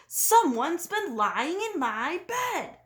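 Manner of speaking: slow papa-bear voice. A narrator's reading. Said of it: "Papa Bear sputtered".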